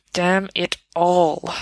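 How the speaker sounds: slow, mild snarl. Acted. Severus to Sirius, a slow understated snarl. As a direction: grind it out with contempt. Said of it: "Severus snarls".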